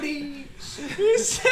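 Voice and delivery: words breaking into high giggles; laughing too hard to talk; hiccup giggles. Real, not acted. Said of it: "but I can't stop laughing".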